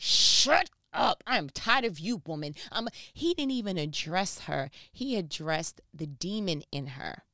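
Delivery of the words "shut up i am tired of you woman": hammed-up annoyed retort; mock snapping Paul. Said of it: "was like".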